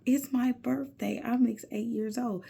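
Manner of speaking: put-on high little-boy voice; high, eager child quoting himself; son's voice. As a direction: imitate an excited young son. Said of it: "he told the lady at the donut shop".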